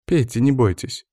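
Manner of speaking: light, reassuring encouragement; encouraging. A narrator's reading. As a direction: coax gently with a smile in the voice. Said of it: "ободряюще улыбнулась Аня".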